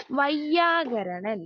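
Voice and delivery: slow, careful, one clear യ in വൈയാകരണൻ; slow careful pronunciation. Shown as a demonstration. Teacher to class, spelling out വൈയാകരണൻ slowly. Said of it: "രണ്ട് യാ".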